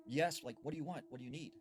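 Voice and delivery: lightly acted call to someone outside; calling out warily. Girl calls to a stranger from behind the door, mild call-out. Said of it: "she calls out to him".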